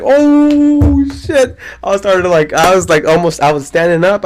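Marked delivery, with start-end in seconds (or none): 0.0-1.6 high, loud rising panic in "oh"; excited shout. Retold or imitated. Watching the rear naked choke, high excited shout. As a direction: cry out as if jumping off the couch.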